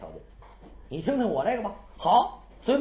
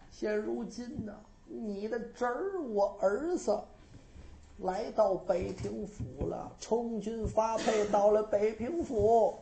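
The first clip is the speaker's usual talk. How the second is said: dream brother. Acted. Dead brother pleads in dream.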